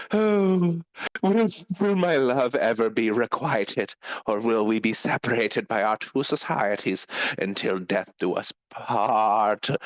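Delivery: half-hammed longing plea to his lost love; lovelorn pirate lament. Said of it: "And he goes".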